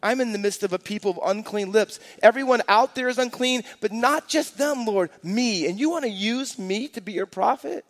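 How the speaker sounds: a lightly voiced Isaiah pleading with the Lord; confessing prophet. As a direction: stress your own guilt. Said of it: "he goes".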